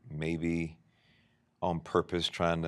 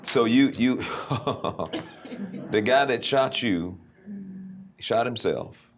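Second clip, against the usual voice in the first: stunned disbelief; 4 semitones higher, 5 dB louder than usual. Real, not acted. Host stunned by forgiveness story.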